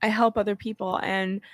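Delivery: mock-tearful martyr voice, rising in pitch and sagging; exaggerated crying impression; Felicia's signature crying. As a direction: put on a hammed-up weepy self-pity, faltering between pleas. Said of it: "Felicia does her signature crying".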